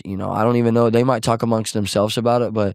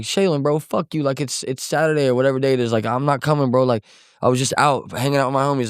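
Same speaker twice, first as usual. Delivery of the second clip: higher-pitched mock protest to a brother; acted-out teenage pushback, raised pitch; retold defiant refusal; 4 semitones higher than usual. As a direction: brush him off, as in retelling an argument. Retold phone argument with brother.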